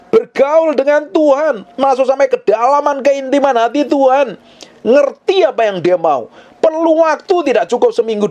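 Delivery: high, insistent preaching; impassioned sermon climax, pitched high; full-force exhortation. Real, not acted. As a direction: scold and urge the congregation in a high, driving voice.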